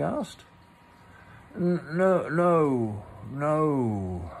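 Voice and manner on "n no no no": stuttering mock-casual denial, a little higher; careless. A narrator's reading. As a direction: brush it off as if nothing is wrong. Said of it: "said Pooh carelessly".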